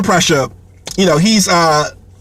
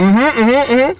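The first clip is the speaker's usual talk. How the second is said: imitating guests' higher-pitched mm-hmms; agreeing along; 5 semitones higher, slower than usual. Guests humoring the host while they eat, mock agreeing. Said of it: "they're kinda agreeing with me".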